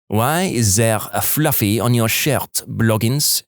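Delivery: slow, lightly French-Canadian sergeant's question; French-Canadian accent. Retold or imitated. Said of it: "Imagine a female French-Canadian sergeant with this accent".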